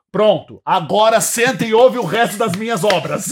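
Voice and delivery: loud, lordly rock star talk to the crowd; a proud band ordering the audience to sit and listen; smug rock star. Retold or imitated. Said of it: "É quase que falando". (astro do rock arrogante e bem alto)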